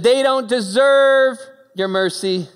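loud, slow, indignant protest; angry Jonah. Acted. Preacher voicing Jonah angrily refusing God's mercy to Nineveh.

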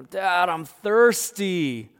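loud, high, drawn-out whine; whining kid. Acted. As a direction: stretch the complaint out at Dad. Voices whining child to dad.

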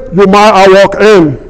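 lightly imitated gym stranger; imitated distinctive voice. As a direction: put on a hint of another man's voice. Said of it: "says in a voice like this".

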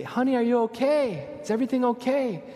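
worried dad calling through the wall. Retold or imitated.

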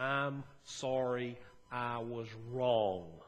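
slow, each word weighed, humbly; slow sincere apology. Shown as a demonstration. Pastor modelling the words his flock must say, slow and sincere. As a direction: lay the apology down slowly and sincerely. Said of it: "the very hardest words we ever have to say".

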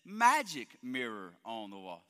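a hint of a grand evil queen; evil queen line. Pastor giving the real line slowly, lightly voiced queen. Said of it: "She says".

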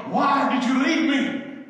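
put-on high, loud child's plea; a half-asleep boy pleading; sleep-talking son. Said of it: "Jacob's in there going".

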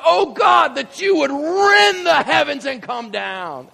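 high, drawn-out prophetic cry. Acted. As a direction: cry desperately up to the heavens. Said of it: "He cries out".

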